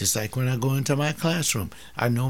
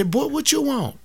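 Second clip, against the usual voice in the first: gruff father; 13 semitones higher, 3 dB louder than usual. Acted. Father snapping at son.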